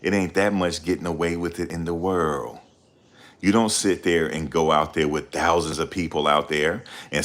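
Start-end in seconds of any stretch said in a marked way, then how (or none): 0.0-2.6 a hint of a rapper's knowing warning; understated mock rapper. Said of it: "In my finesse two-time voice".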